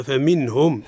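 فمنهم with a clearly sounded n before the h; clear noon. Shown as a demonstration. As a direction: say فمنهم slowly, the noon distinct and unhummed. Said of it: "النون عند الهاء في لفظ فمنهم حكمها الإظهار". (فمنهم بإظهار النون واضحة)

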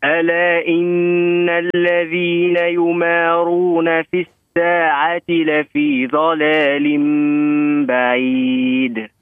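measured recitation, repeating after correction; Quran recitation. Shown as a demonstration. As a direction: recite it again carefully. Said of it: "عاود".

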